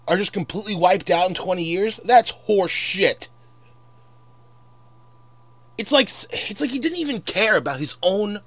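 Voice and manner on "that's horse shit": angry. Real, not acted. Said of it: "I know I sound mad because I am mad".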